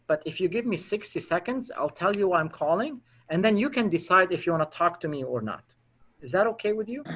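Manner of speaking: soft, hesitant admission with pauses; disarmingly honest. Shown as a demonstration. Caller admits to a prospect it's a sales call, disarmingly honest and submissive. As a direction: confess the sales call gently, as if uncomfortable. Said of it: "we call this being disarmingly honest".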